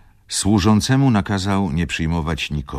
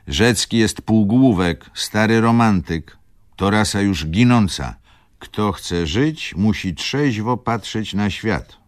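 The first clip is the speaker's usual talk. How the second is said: Schumann; 6 semitones higher, 5 dB louder than usual. A narrator's reading. Schumann lectures and examines Wokulski, high emphatic voice. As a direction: pronounce it high, loud and emphatic.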